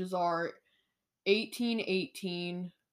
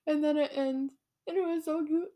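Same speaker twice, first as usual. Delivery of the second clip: gushing; 7 semitones higher than usual. Real, not acted. Gushing over the ending.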